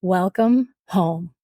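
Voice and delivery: slow, gentle welcome from the priest; tender priest's greeting, unhurried; most beautiful voice. Retold or imitated. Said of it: "in the most beautiful voice".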